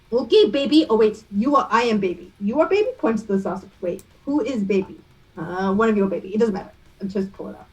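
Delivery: light mock French accent, confused rise on baby. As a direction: puzzle over who is baby, in French lilt. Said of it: "I'm killing this accent".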